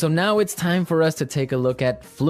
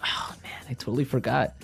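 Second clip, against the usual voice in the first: whisper; 7 dB quieter than usual. Retold or imitated. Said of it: "I'm like".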